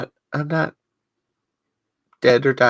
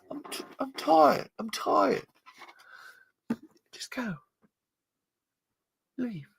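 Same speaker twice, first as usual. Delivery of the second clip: Lightman impression, building to a shout then fading to a whisper; 8 semitones higher than usual. Host as Lightman scolding a liar, then sending him off in a hush. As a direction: rage at the liar, then dismiss him wearily. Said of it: "I'm gonna do a Lightman impression".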